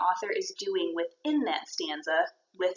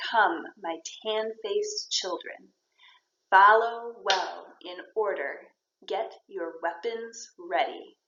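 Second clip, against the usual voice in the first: put-on "Come, my tan-faced children" read slowly, leaning on the stressed beats; slow verse beat, a little more weight on "Come", "follow", "weapons"; metrical stress; slower than usual. Shown as a demonstration. Teacher showing meter to a class, stressing the beats in "follow well in order". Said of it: "raise the volume a little bit or the emphasis".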